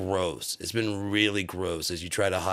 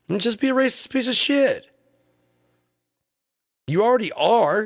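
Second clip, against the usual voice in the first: yelling, much higher and louder; enraged yell at the crowd; furious shout; 12 semitones higher, 4 dB louder than usual. Real, not acted. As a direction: scream it at them in disgust. Ranting at Trump supporters.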